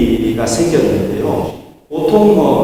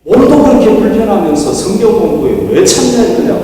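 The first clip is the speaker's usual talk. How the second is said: retold scolding; 6 semitones higher, 4 dB louder than usual. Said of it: "막 야단을 치더래요".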